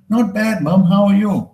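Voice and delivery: high, chirpy Scottish answer; cheery son's reply. Acted. Acted cheerful reply to mum.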